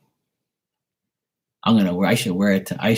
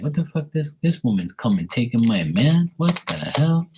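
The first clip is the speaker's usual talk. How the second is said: put-on higher, outraged jealous girlfriend voice for the dog; 4 semitones higher than usual. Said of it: "She'd be like".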